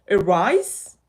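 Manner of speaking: "rise" said firmly with the pitch climbing. Shown as a demonstration. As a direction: push "a rise" upward at the end. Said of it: "have to sound in a way".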